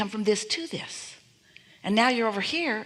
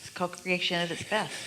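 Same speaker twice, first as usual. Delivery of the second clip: whisper. Real, not acted. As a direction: breathe it out in a whisper. Speaks in a whisper.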